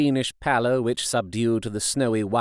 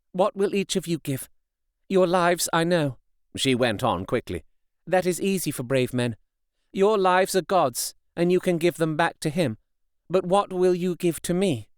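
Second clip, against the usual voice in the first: put-on lightly raised, earnest young wife; a hint of a resolute young woman; Mina's voice; 6 semitones higher than usual. A narrator's reading. Mina asks the men.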